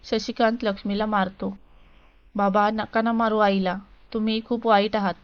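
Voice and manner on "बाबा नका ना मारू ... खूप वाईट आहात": a touch of tearful pleading, lightly voiced daughter; crying child. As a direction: plead with father through mild tears, understated. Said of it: "रडत रडत बोलते".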